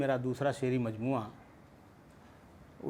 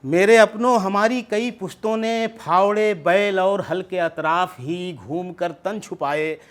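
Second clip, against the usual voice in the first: poetry recitation; 4 dB louder than usual. Acted. Recites his poem at mushaira.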